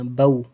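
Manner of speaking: "بو" ending on rounded lips. Shown as a demonstration. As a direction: round your lips as "بو" closes. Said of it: "آخر میں ہونٹ گول کرنے ہیں".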